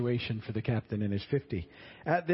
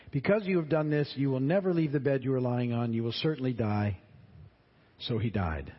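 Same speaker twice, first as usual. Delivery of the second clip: scripture reading. Acted. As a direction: read the passage out to the class. Reads scripture between comments.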